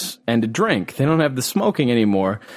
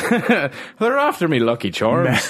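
slow, hammed-up Irish accent; cartoon cereal-ad Irish; Lucky Charms mascot; 3 semitones higher, slower than usual. Clowning for co-host, stage Irish mascot accent. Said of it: "the fucking Lucky Charms guy".

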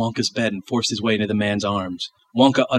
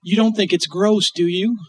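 put-on child voice; 10 semitones higher, 3 dB louder than usual.

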